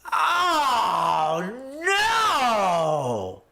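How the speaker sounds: long high "oh no" wail; hammed-up drawn-out cry of disappointment; mock disappointed wail. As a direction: wail it out in exaggerated dismay. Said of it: "I was very, very disappointed".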